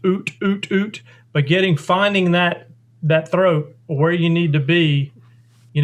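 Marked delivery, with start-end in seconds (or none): 0.1-1.0 voiced call syllables. Shown as a demonstration. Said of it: "either saying hut or oot".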